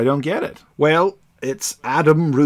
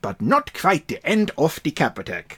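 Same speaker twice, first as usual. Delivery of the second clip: put-on light German accent; Stein's accent; 4 semitones higher, 3 dB quieter than usual. Podcaster reading the next-issue box in a light German accent. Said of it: "written out in Stein's accent".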